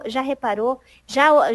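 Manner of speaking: ordinary delivery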